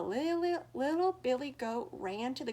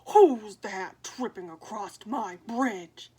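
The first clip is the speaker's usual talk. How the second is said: much louder, slow, booming troll; 2 semitones lower, 12 dB louder, slower than usual. Acted. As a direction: boom it out like a troll guarding his bridge. Troll voiced in story.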